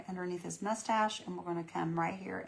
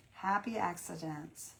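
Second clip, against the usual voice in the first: slow savoring; 6 dB quieter, slower than usual. Real, not acted. Repeats the phrase slowly.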